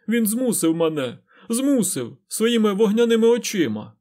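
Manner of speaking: high, loud frantic cry; terrified wail. A narrator's reading. Fain cries out in terror about his master, loud and high. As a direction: scream out the horror of being forced.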